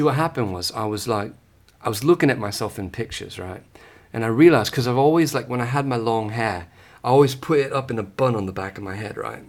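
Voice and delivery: put-on a light, casual British accent, asked for; playful put-on British accent. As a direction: answer the question in a lightly done British accent. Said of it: "in British?".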